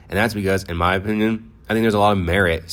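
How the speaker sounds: talking while chewing gum; words around a wad of gum. Real, not acted. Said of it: "I got this gum in my mouth".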